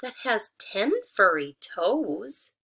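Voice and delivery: slow, pointed hen voice; suspicious hen. Acted. Hen pointing out furry toes, slow and pointed. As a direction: draw out the odd detail. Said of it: "she said".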